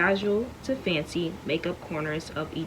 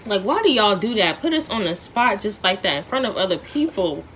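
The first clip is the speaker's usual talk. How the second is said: real protest; 3 semitones higher, 5 dB louder than usual. Real, not acted. Child protests to parent.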